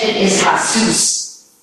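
Jesus said as hay-SOOS, with an H sound at the start; Spanish pronunciation. Shown as a demonstration. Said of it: "In Spanish".

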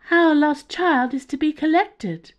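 high, loud alien pronouncement; high-pitched alien. Acted. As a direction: announce it like a strange being from above. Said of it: "in a high-pitched tone".

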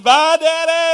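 put-on high, loud little girl goodbye; child's voice. Pastor voicing his daughters waving bye, in a high child voice. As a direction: chirp it like a small daughter.

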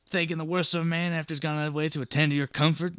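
fast, bitter reproach; resentful driver. Acted. Coach driver scolding the suspicious traveller, fast bitter. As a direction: throw the accusation back at him quickly. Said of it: "he spits".

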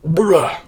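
disgusted "bruh" as if gagging; mock gag. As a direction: retch in exaggerated disgust. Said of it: "makes you wanna gag".

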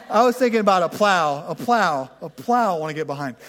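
laughing. Real, not acted. Laughing at own slip of tongue.

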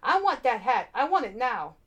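greedy magician shouting for the hat. A narrator's reading. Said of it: "Professor Hinkle shouted".

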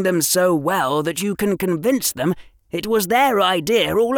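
a hint of a proud young scientist; Harry explaining science to Draco with pride; young Harry, earnest. Harry voiced in reading.

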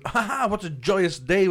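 high, loud, slow acted glee; hammed-up merry laugh and cheer; mock joyous. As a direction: play the blissfully happy kid. Acts his gleeful younger self.

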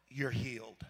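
breathy hushed pronouncement; mock healer's blessing. Crazy coworker pronounces you healed, hushed whisper. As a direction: whisper it like a mystic healing.

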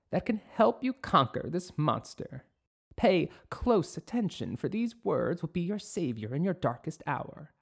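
loud, solemn prophecy; prophetic witch. Acted. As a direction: proclaim it like an oracle.

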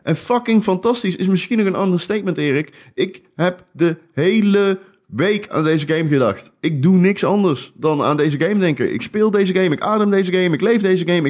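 high, gushing rave; excited. Real, not acted. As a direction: burst out with real enthusiasm. Gushing about loved game.

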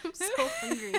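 high, fast whiny vocal fry. Real, not acted. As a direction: whine it through vocal fry. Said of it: "My vocal fry".

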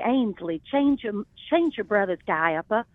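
lightly imitated old Charleston drawl; a hint of a Charleston grandmother; old Charleston accent. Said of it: "that old Charleston accent that's like".

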